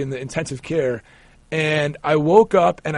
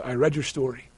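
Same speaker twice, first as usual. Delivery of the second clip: lightly imitated South African surgeon; retold in a slight South African accent, lower; 3 semitones lower, 4 dB quieter than usual. Surgeon greeting his patient before the operation, South African accent. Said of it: "in his accent".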